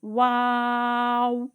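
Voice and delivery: واو long with rounded lips; rounded waw. Shown as a demonstration. Quran teacher showing students واو, lips rounded and drawn out. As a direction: hold واو with round lips start to end. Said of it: "اینڈ بھی گول پہ ہونٹ".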